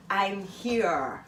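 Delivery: slow, over-the-top posh mock voice; posh Mary Poppins. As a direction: ham up a prim nanny. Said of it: "A fucking Mary Poppins".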